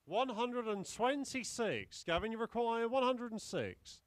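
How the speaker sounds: darts score caller. Acted.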